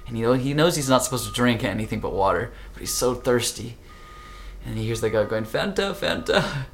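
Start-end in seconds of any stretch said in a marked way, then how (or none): 5.4-6.7 vendor calling out. Retold or imitated.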